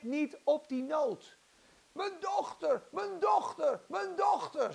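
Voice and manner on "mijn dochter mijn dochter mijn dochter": high, insistent mother's cry; acted desperate calling; repeated pleading call. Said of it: "ze blijft maar roepen".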